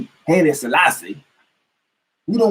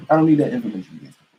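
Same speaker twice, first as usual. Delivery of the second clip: quicker, firmer take of the same line; "need" पर गिरती आवाज़, तेज़ दोहराव; faster repeat; 2 semitones lower, faster than usual. Real, not acted.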